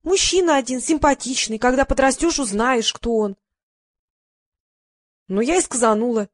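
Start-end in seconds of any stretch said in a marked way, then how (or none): 0.0-3.4 mumbling. Retold or imitated. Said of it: "мама на мой вопрос мямлила".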